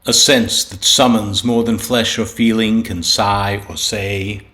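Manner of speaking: measured, unhurried recital of a sonnet; poem reading. Acted. Poet reading his sonnet to listeners, measured recital. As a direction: lay each line down with a pause after it.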